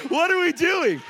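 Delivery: loud, high challenging question; preaching cry. Real, not acted. Preacher to the congregation, loud challenging cry. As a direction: call the congregation out.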